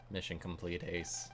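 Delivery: soft robotic announcement. Acted. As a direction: report it like a machine. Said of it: "except a lot more robotic".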